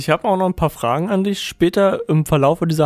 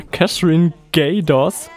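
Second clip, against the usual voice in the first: laughing through the name; slower than usual. Real, not acted.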